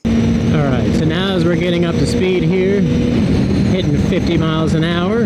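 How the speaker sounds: helmet mic on the highway, wind roaring; talking inside a helmet over wind noise. Real, not acted. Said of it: "I do have a lot of wind noise in my helmet".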